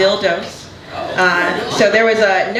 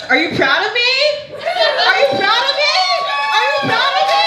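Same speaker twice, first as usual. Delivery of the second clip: very high, escalating squeal for approval; mock pleading. Comedian asking disapproving mother for approval, high mock-desperate squeal. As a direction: plead higher and higher, comically desperate.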